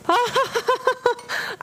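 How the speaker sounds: high laugh through the burn; pained laugh. Real, not acted. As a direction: laugh it off while your mouth burns. Spicy challenge, pain laughter.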